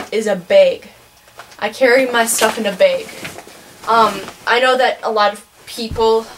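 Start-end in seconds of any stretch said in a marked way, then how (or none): 0.1-3.1 Midwestern bag. Shown as a demonstration. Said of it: "using the soft E sound".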